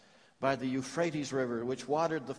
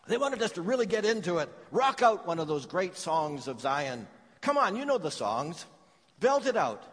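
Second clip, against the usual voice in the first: mocking captors; 3 semitones higher than usual. Preacher voices the captors' demand.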